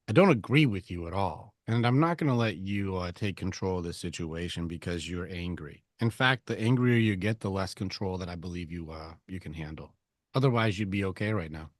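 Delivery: calm steady husband to angry wife; stoic calm. Retold or imitated. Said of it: "Just go like".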